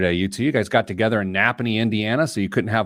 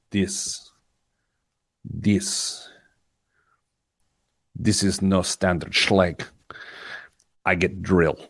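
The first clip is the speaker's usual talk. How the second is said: lower, slow, broken-English locksmith with disdain; mock locksmith accent; 5 semitones lower, much slower than usual. Host imitating a disdainful locksmith, mild mock accent. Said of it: "with absolute disdain".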